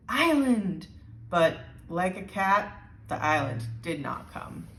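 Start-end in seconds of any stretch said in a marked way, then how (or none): 0.1-0.9 a bit higher, calling out; calling again. A narrator's reading. Lola calling the island again like a cat. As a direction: call it like summoning a cat. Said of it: "she called, like it was a cat".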